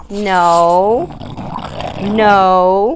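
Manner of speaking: sharp, loud no to the dog; a firm loud command to stop. Real, not acted. Groomer to squirming dog, a firm loud no.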